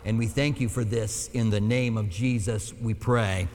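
prayer. Real, not acted. Pastor thanking God for gathering again, in earnest low-pitched prayer. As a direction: pray aloud on behalf of the congregation, low and level.

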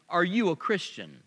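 a light Southern drawl, Billy Graham style. Retold or imitated. Preacher imitating Billy Graham to the congregation, light Southern drawl. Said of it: "in his southern drawl".

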